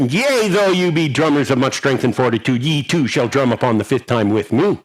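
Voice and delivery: grand archaic proclamation; mock biblical prophet. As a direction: declaim it like old scripture. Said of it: "Drumming goes Shakespeare".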